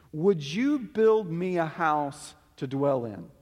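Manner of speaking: slow, pointed ironic question, leaning on YOU; heavy irony. Acted. God answering David's offer through Nathan, heavily ironic. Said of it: "That is irony in a thick accent at that point".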